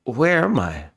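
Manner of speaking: lightly voiced confused girl coming to; softly puzzled captive calling for friends; waking captive, confused. Kidnapped Maya wakes alone and calls for Nick, lightly voiced confusion.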